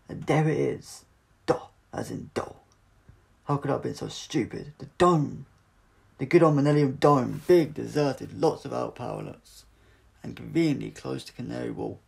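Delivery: loud, high, excited exclamation; Doctor realising where Martha is held; triumphant realisation. Acted. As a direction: crow with delight at the answer.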